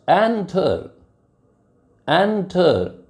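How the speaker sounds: एंटर with the weight on एन; एंटर said with the first syllable pushed; stress on first syllable. Shown as a demonstration. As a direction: hit the एन of एंटर. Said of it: "जोर ई, एन पर है".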